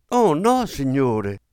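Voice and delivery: high, loud protesting cry; shrill cry. A narrator's reading. Maid protests Gabriel's coin, shrill loud cry. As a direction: squeal it out in alarm. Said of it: "strillò lei seguendolo".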